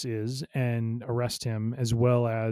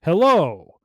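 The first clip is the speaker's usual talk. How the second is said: trying to sound casual; 5 semitones higher, 9 dB louder, slower than usual. Retold or imitated. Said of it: "so trying to play it bland".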